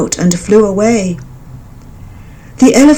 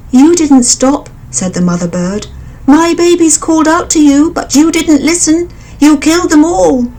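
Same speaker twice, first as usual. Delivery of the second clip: high, louder bird voice, bitter; accusing mother bird; 9 semitones higher, 3 dB louder than usual. A narrator's reading. Mother bird accusing the blinded elephant, high. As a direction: throw his cruelty back at him.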